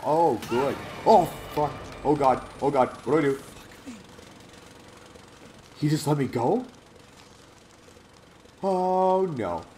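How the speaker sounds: real panicked yelps, high and loud; frantic, loud, high-pitched cries of alarm. Real, not acted. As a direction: yell in genuine fright while fleeing. Chased by a crazy lady.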